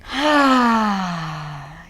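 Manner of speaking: gentle releasing sigh; big sigh. Shown as a demonstration. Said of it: "big sigh".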